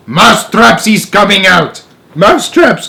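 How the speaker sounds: witch shouting. Acted. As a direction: bellow it over the crowd. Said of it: "raised her voice louder than ever and shouted".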